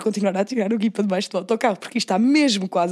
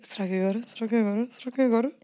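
hushed anticipation; 7 dB quieter than usual. Retold or imitated. Retold secret anticipation, repeated.

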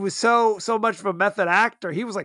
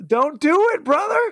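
high, pleading mock warning; 7 semitones higher, 4 dB louder than usual. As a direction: beg him not to, voice way up.

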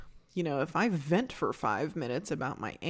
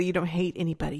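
lightly voiced grandmother's correction; a hint of a chiding grandma; grandmother's admonishment; faster than usual. Grandmother telling a child not to hate, lightly imitated. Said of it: "she would say".

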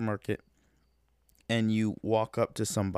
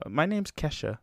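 imitating a singer; 7 semitones higher than usual. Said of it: "how she said her name".

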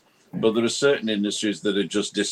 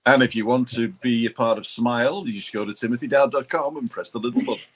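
voiceover voice; 3 semitones higher than usual. Pretend. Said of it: "I'm gonna hire his voice".

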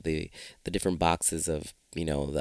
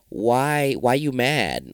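mock challenge; 4 semitones higher, 5 dB louder, much slower than usual. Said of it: "And I said to myself".

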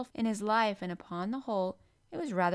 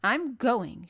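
louder, raised, indignant announcement; pinched indignation; 4 semitones higher, 8 dB louder than usual. A narrator's reading. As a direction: announce it in a huff. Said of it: "face looked as pinched as a nutcracker".

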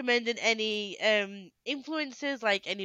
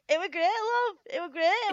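higher, laughing Yorkshire echo; mock Yorkshire accent; 10 semitones higher, 4 dB louder than usual. Teasing her co-host by echoing her Yorkshire accent. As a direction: tease her with a Yorkshire twang. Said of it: "You did a great Yorkshire accent".

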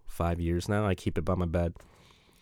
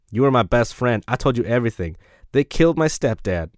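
emphatic, slightly louder letter reading; lightly voiced lovelorn prisoner; 5 dB louder than usual. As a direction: plead with an ex, a touch worked up. Reads prisoner's love letter aloud.

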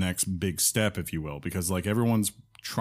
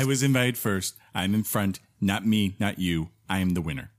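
imitating John. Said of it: "the worst impression of me ever".

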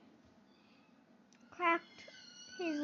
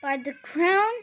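booming warrior king; 2 semitones higher, 5 dB louder than usual. A narrator's reading. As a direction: roar it like an angry king. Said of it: "roared the king again".

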